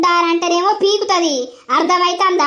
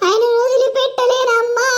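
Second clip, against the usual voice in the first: crying; 5 semitones higher than usual. Acted. Wife begging mother, weeping.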